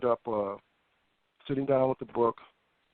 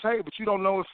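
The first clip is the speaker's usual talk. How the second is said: imitating a contradicting inner voice, pitched up; lightly acted higher-pitched voice in the head; nagging thought; 7 semitones higher than usual. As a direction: push back as the pestering thought, rising high. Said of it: "the next thought was".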